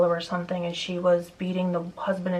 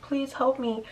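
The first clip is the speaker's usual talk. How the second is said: high, drawn-out mock scream at ordinary volume; slow, high-pitched imitation of pleading; imitated cry for help; 7 semitones higher, slower than usual. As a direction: retell a scream for help without shouting. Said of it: "someone screaming".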